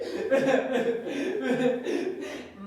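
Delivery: bursts of put-on heaving breath; mock sobbing laugh. Patsy finishing the impression of Wally, mock heaving sobs.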